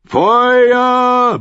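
high, very drawn-out yell; roared command. A narrator's reading. Commander orders fire at the gate, roared. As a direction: roar the order over the battle. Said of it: "brüllte John".

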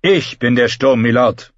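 lightly voiced, proud and mocking; Euron. A narrator's reading. Euron boasting to the lords, lightly mocking. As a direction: boast calmly with a sneer.

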